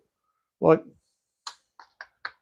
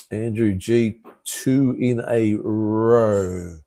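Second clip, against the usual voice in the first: slow reading out; much slower than usual. Real, not acted. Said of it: "What have I missed there".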